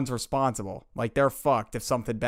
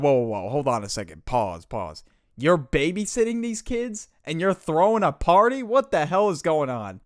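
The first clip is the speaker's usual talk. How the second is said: shocked disbelief; 2 semitones higher than usual. Retold or imitated. Friend shocked at babysitting party.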